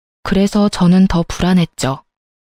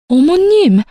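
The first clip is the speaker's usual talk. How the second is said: startled cry; 8 semitones higher, slower than usual. Acted. Wife cries out to her mother-in-law in shock. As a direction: caught off guard, calling out.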